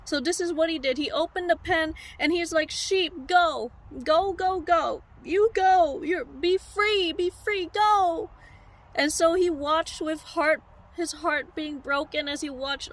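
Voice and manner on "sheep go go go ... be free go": acted shepherd calling out, punchy repeated commands; urging the sheep away. Shepherd opens the pen for his sheep, calling out urgently. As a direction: send the sheep off with raised, insistent calls.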